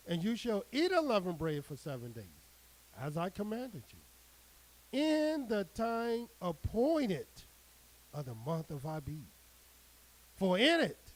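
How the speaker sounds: measured, declaiming scripture read; solemn preacher reading the Word. Acted. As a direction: proclaim the verse to the flock. Reads scripture aloud to congregation.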